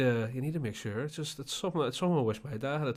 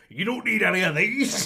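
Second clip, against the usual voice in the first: mock old man; 7 semitones higher, 6 dB louder than usual. Imagined old man jumping out.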